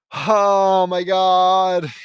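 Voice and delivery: loud, high cry of dismay; exasperated outburst. Real, not acted. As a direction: wail it loudly, drawn out, fed up. Dreads the long list of kids.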